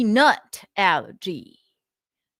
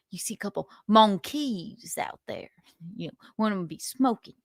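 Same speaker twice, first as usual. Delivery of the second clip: lightly voiced Southern accent; 4 dB quieter than usual. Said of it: "is this a Southern accent?".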